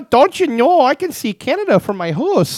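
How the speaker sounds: high, drawn-out folksy accent impression; Sarah Palin. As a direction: ham up a high-pitched, slow northern twang. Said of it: "Oh, Sarah Palin?".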